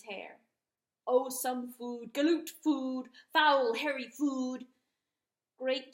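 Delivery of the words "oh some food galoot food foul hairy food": high, squawky disdainful turkey. A narrator's reading. Turkey sneering at the weeping dog. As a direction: peck out the words like a sneering bird.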